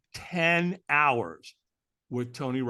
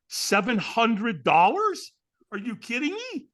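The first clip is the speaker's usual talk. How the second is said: incredulous; 6 semitones higher, slower than usual. Retold or imitated. Shocked at ticket price.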